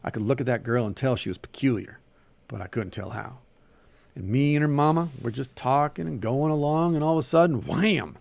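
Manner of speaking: animated story reading with Southern dialogue; story narration. A narrator's reading. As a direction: read the tale aloud, giving each figure life. Reads a short story aloud.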